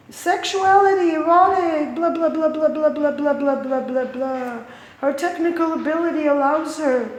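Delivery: high, sneering sing-song of gallery blurb; mocking read-out. Visitor mocking the exhibit's wall text, high sneering sing-song. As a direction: rattle off the wall text like it's nonsense.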